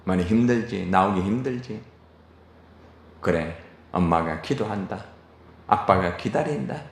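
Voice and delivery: tender reassuring tone; gentle parent. Retold or imitated. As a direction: soothe a child who stopped coming to church. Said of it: "바로 이거예요".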